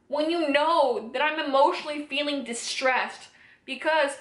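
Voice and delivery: rising, pained demand, slowing on doing; angry confrontation. Retold or imitated. Confronting the man who assaulted her, anguished and angry. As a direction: hurl the question at him in disbelief. Confronting him after waking up.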